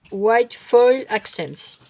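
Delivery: slow English with a French accent; bad English accent. Real, not acted. Vlogger reading the product name, poor English accent. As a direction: pick through the English words in Frenglish. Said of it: "mon accent anglais tout pourri".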